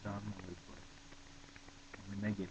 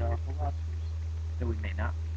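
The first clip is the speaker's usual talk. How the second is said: loud, higher pompous philosopher; loud declaration; 3 semitones higher, 10 dB louder than usual. Acted. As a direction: announce it grandly. The speaker declaring while reading.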